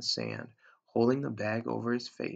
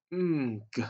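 fearful stammered sound; 3 semitones higher, 3 dB louder than usual. A narrator's reading. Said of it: "It was just a sound of fear".

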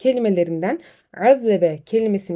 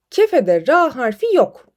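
angry; 5 dB louder than usual. Acted. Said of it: "biraz fazla sinirlenmiş".

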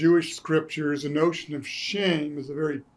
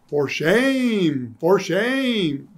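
mock tut-tutting; 3 semitones higher, 3 dB louder, much slower than usual. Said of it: "good Christians wagged their tongues".

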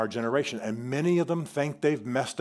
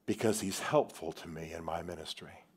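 tender quote; 7 semitones lower, 9 dB quieter than usual. Retold or imitated. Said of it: "Look what he says".

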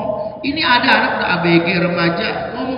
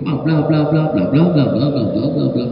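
chattering daughter; 6 semitones lower than usual. Retold or imitated. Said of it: "dia langsung".

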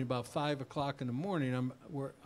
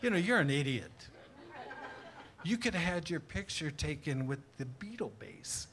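son teasing; 2 semitones higher than usual. Retold or imitated. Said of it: "My son says to me".

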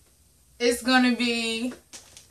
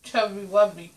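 cheeks stuffed full; 3 semitones lower than usual. Real, not acted. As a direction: mouth crammed with marshmallows. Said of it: "you put one marshmallow in your mouth".

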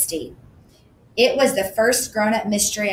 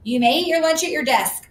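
a hint of a prim teacher, higher; lightly voiced teacher; 8 semitones higher than usual. A narrator's reading. Teacher telling the girl to eat at her desk, lightly prim. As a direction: read it like a stiff teacher.

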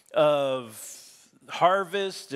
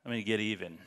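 Samson's inner vow; 7 semitones lower, 5 dB quieter than usual. Retold or imitated. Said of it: "And so he decides".

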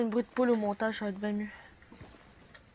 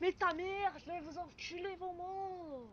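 mock crying; 6 semitones higher, 16 dB quieter, slower than usual. Fake crying whine after loss.

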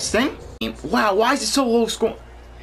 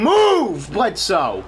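yelling at a computer teammate to move; much slower than usual. Real, not acted.

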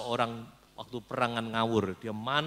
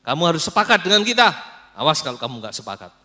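threatening; 4 semitones higher, 12 dB louder, faster than usual. Acted. Messengers threaten prophet Mika.

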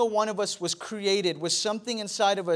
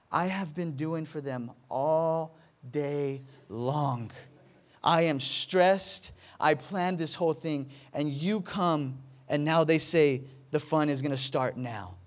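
kinda mad wife; 4 semitones lower than usual. Retold or imitated. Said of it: "She's kinda mad".

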